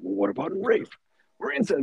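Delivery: mocking gotcha.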